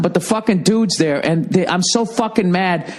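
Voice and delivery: usual speaking voice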